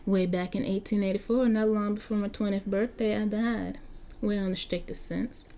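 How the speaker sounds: put-on vampire Marky with a light Southern US accent. Game master as Marky introducing himself to the player in a Southern accent.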